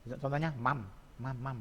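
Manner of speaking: "mam" closed on a humming m; teacher modelling final m in "mam"; batchim demo. Shown as a demonstration. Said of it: "Tetap miem".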